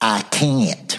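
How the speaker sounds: put-on little child voice with southern accent. Parent retelling a little daughter refusing to ride without training wheels, southern accent. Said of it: "You know that southern accent".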